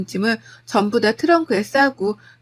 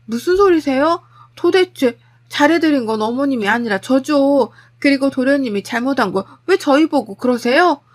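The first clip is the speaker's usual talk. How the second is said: raised, mildly angry comeback; indignant retort; 3 semitones higher, 4 dB louder than usual. Acted. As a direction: stand up to the mother-in-law. 시어머니에게 맞서는 며느리. (억울해서 맞받아치는 말투)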